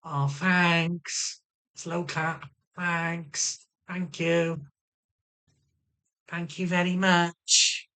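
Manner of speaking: drawn-out mock gratitude; sarcastic thanks. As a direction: thank them slowly, as if with a slow clap. Acted slow-clap thanks.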